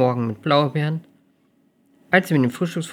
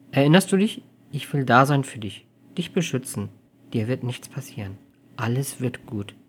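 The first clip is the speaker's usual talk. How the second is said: cooing. Acted. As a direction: coo reassurance to a lover. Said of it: "gurrte sie".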